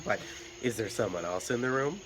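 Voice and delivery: usual speaking voice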